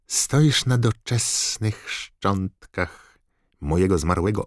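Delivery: high, loud, slow sneering taunt; mock him with cruel triumph; gloating villain. Voldemort taunts Harry.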